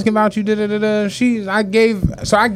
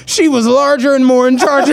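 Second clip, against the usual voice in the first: laughing quote; 5 semitones higher than usual. Retold or imitated. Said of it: "This nigga was like".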